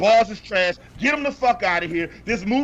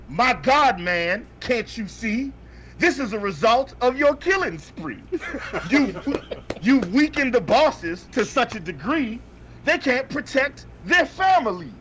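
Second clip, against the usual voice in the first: quoting Shake's rhymes; 2 semitones higher than usual. Retold or imitated. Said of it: "and I quote".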